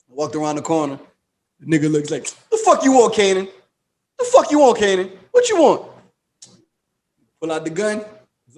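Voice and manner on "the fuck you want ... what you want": mock hostile demand. Street dealer confronting Kanan, high mock yell. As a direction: bark it at Kanan like a street tough.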